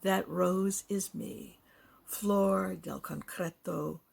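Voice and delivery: measured poetry reading with lifted key phrases; poem recitation. Acted. Poet reading own work for library listeners, poem recitation. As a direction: recite it deliberately, pausing between phrases.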